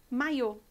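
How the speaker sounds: maiô stressed on the final closed ô; maiô as in swimsuit; maiô with accent. Shown as a demonstration. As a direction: land the stress on the last syllable of maiô. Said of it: "Viram como são palavras completamente diferentes".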